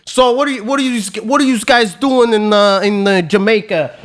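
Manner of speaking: lightly voiced wired stranger, stumbling over repeats; chatty cokehead. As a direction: imitate an over-eager stranger making small talk. Retold cokehead turning chatty.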